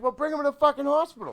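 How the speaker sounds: high, very loud, fast outburst; retold exasperated sister. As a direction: yell it as an imitated indignant kid. Sister arguing with stepfather.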